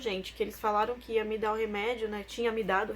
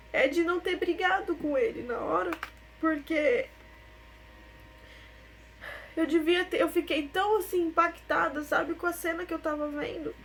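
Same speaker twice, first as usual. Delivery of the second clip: voz embargada, mais aguda, com pausas; choro contido; 4 semitones higher than usual. Real, not acted. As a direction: seguir o relato à beira das lágrimas. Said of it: "é impossível falar e não chorar". (voz de choro, embargada)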